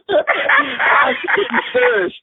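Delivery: real laugh breaking through, slow and high; can barely get the words out for laughing; laughter squeezing the words up high. Real, not acted. Laughing at his childhood story.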